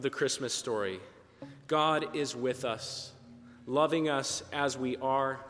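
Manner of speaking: pastor's calm Christmas blessing to the congregation; sermon blessing. Acted.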